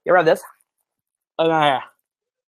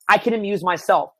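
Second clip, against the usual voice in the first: playful self-amusing voice; 5 semitones higher, much slower than usual. Pretend. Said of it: "you're saying".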